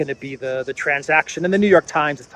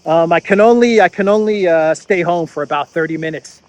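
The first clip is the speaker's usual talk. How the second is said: husband to wife, laughing. Retold or imitated. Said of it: "and he says".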